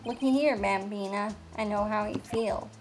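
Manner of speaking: put-on cowboy detective's country accent. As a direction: play the Wild West lawman, country accent. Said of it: "get to do a country accent".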